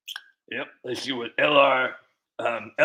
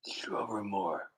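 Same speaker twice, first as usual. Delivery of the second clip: softer, slower re-read of the name; soft slow repeat; 4 semitones lower, 12 dB quieter, slower than usual. Shown as a demonstration. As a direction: try the name again gently, slowly.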